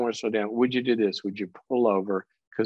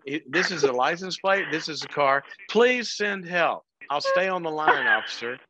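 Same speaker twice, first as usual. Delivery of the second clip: mock 911 call; 4 semitones higher than usual. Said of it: "Nine one one".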